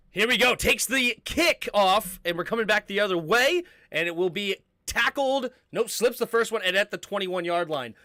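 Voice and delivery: energetic kickoff call, stretching key words; live play-by-play. Real, not acted. Commentator calling a kickoff return, live play-by-play.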